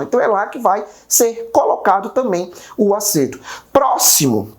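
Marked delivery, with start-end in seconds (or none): 3.7-4.5 Próximo with "Pró" punched; "Próximo", front syllable stressed. Shown as a demonstration. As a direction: hit the first syllable of Próximo hard. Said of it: "o pró de próximo também é pronunciado com mais força".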